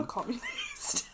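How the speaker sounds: squealed high joking declaration; joking shout. Real, not acted. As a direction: proclaim it with a laugh.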